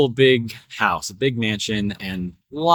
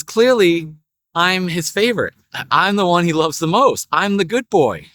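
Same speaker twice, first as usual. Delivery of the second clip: lightly voiced proud dog, higher pitch; insistent dog; 3 semitones higher than usual. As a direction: insist mildly as the favored dog. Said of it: "So the dog says".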